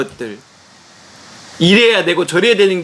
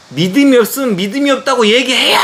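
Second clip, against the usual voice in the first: raised, fast telling-off on the phone; retold shouting; 5 semitones higher, faster than usual. Father scolding the pastor over the phone, raised voice. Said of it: "고함을 쳤어요".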